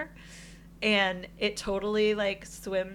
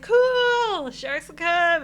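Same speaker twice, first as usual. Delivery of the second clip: high, loud, drawn-out cool; retold burst of naive enthusiasm; excited exclamation; 10 semitones higher, 10 dB louder, much slower than usual. Diver reacting to instructor's shark trick, excited.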